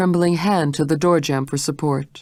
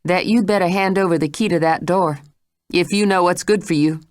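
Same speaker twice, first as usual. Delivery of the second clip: deadly evenness; 3 semitones higher than usual. Acted. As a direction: threaten without raising her voice. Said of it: "in a tone of deadly evenness".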